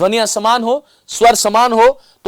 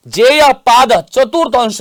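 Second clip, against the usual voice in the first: sutra recitation. Shown as a demonstration. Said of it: "उन्होंने सूत्र बना दिए".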